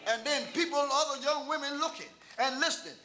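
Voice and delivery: sustained, driving sermon delivery building to a shout; fervent preaching. Real, not acted. Preacher testifying to the congregation about a daughter-in-law, fervent preaching. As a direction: preach it with mounting force.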